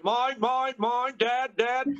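a hint of the greedy seagulls again; child pestering dad like a gull; nagging seagull kid. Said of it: "I don't have to hear".

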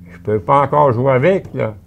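put-on high, loud child's voice, eager; little boy. Little boy tells the teacher about his baby brother, high and loud. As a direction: show how tiny the baby is.

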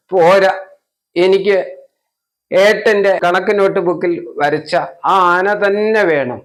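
high, loud tantrum demand; stubborn child. Acted. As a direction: insist like a wailing toddler. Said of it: "വാശി".

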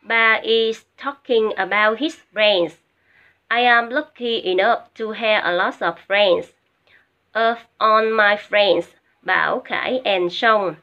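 slow, word-by-word textbook reading; reading passage aloud. Shown as a demonstration. Teacher reading the lesson passage to students, slow model reading. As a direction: read it out slowly for learners to follow. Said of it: "cô sẽ đọc cho các em nghe cái phần".

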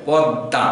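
পদ্মা said poddã with a doubled d; পদ্মা without m, nasal end; correct pronunciation. Shown as a demonstration. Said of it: "পদ্মা নয়".

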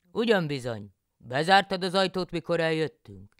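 loud and high, anxious question; loud, high alarmed husband; husband János. A narrator's reading. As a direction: call out suddenly worried about the house. János asks about door.

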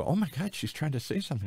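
pitched high, urgent surprise; excited alarm. Retold or imitated. Nurses at the deathbed suddenly hearing her mumble, high and urgent. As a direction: jump up in pitch as if startled.

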